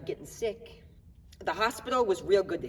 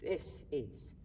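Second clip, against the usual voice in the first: quoted sick man; 4 semitones lower, 10 dB quieter than usual. Retold or imitated. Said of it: "One day he looked at me and he said".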